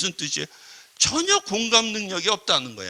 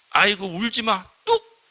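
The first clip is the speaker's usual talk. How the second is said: browbeating scold; 2 semitones higher, 4 dB louder than usual. Acted. Scolding someone who is crying, brusque and browbeating. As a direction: order the crier to stop at once. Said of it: "윽박질르는 경우들이 있다는 거야".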